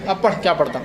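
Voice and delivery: put-on quoting the old man through a laugh; chuckling mock scold; laughing retelling. Teacher retelling the old man's outburst, laughing. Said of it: "بولے".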